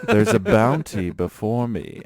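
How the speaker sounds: slow, lightly hammed-up proclamation; mock-grand declaration. Walmart worker beholding stray carts, mock-grand. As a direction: declare it like a treasure discovered.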